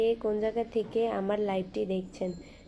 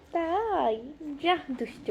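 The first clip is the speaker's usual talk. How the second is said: high, coy reaction to flattery; bashful mock telling-off; playful coy scolding; 5 semitones higher, slower than usual. Real, not acted. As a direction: tease back in a raised, playful voice. Coy reply to a flattering crush comment.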